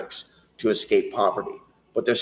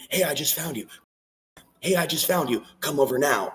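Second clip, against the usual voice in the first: mock sweet invite; 6 semitones higher than usual. Acted stranger inviting him.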